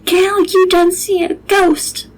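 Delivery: high, slow, solemn warning; ominous. Acted. The cook telling the girl she saw a ghost, solemn and slow. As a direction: pronounce it like a doom. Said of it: "She said".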